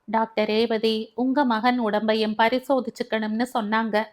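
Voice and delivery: steady, composed reply; calmly. Acted. Daughter-in-law answers mother-in-law, calm and measured. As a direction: keep it level and unhurried. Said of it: "நிதானமாக கூறிவிட்டு".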